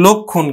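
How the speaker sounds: লক্ষণ as lokkhon, no nasal; closed o vowel. Shown as a demonstration. Teacher confirming the plain spelling's sound, lokkhon. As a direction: say লক্ষণ with round lo. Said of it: "এটা উচ্চারণ হলো কিন্তু".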